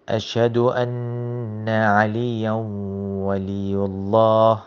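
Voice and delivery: chanted "أشهد أن عليا ولي الله"; recited adhan line. Shown as a demonstration. Teacher chants the adhan line for students. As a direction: recite it as the call.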